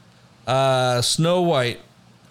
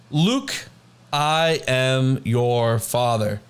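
slow Vader line; much slower than usual. Retold or imitated. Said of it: "most famous movie line".

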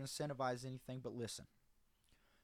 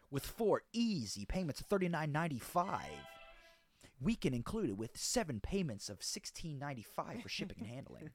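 infomercial; 3 semitones higher than usual. Pretend. Parody infomercial pricing.

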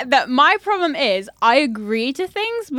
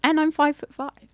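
whispering; 2 semitones higher, 4 dB quieter than usual. Real, not acted. Whispered add-on.

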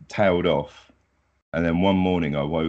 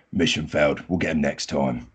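game announcer voice. Retold or imitated. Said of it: "from the old cod games where it goes like".

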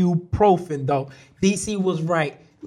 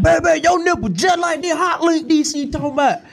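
high hyped shout across the room; excited shout; 10 semitones higher than usual. Real, not acted. Hyping up the joke on the show, high shout. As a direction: yell it out, cracking up.

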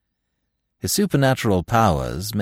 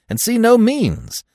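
high, loud lament, easing at the end; crying out; 7 semitones higher, 4 dB louder than usual. A narrator's reading. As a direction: cry out your helplessness theatrically. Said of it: "cried I".

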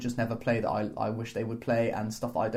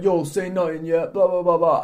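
higher, louder mock road man; fake tough gangster; 4 semitones higher, 5 dB louder than usual. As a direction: play the tough street kid. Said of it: "start talking like a road man".

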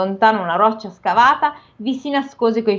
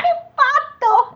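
high, slow ogre cry; shocked ogre; much slower than usual. Acted. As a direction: gasp it as the ogre. Ogre discovers dead daughters.

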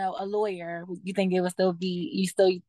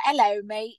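put-on British accent. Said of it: "did British accents and stuff".

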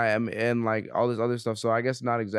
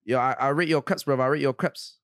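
put-on London accent. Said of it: "let me know my shit valid".

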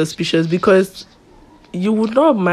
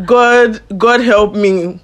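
fuming restraint; 3 semitones higher, 3 dB louder, much slower than usual. Retold or imitated. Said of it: "It was like".

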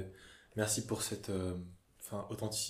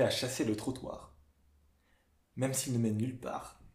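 hammy stage actor. Pretend. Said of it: "je vais te les déclamer".

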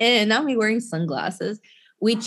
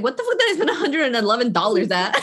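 laughing disbelief; faster than usual. Retold or imitated. Disbelief at the bar bill.

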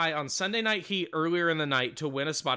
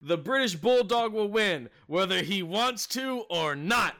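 lightly voiced British child, higher; higher-pitched kid voice, slowing at the end; little British kid; 4 semitones higher, slower than usual. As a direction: do a small British kid making a firm declaration. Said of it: "this little British kid goes".

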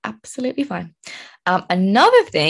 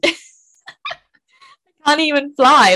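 laughing worry; 9 semitones higher, 6 dB louder, much slower than usual. Retold or imitated.

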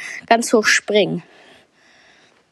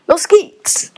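excited; 8 semitones higher, 4 dB louder than usual. Real, not acted. Starting a new game run.

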